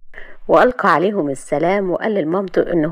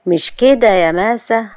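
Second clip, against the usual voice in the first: sly; 4 semitones higher, 3 dB louder, slower than usual. Acted. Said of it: "وقال بمكر".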